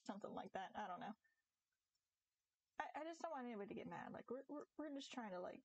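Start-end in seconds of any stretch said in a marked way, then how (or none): 0.1-0.7 high, mock indignant viewer; mock complainer. Imitating viewers upset about mature talk, high mock indignation. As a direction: parody an offended viewer. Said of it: "They're like".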